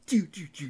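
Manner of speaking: high, soft electronic doo noises; little drum-pad blips by mouth; imitated sound effects. Host describing the show's future drums, soft imitated blips. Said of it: "doo sound effects on".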